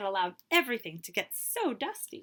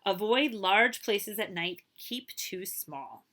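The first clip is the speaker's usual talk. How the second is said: priest's advice; much slower than usual. Acted. Priest's parting advice to boy.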